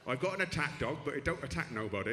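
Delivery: lightly imitated Bath accent; a touch of rough Bath accent; mock Bath local, lightly done. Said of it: "I do very much like the Bath accent".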